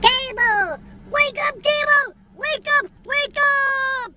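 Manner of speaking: high, loud shout at the cable box; fed-up yell to wake it up. Real, not acted. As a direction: shout it awake in frustration.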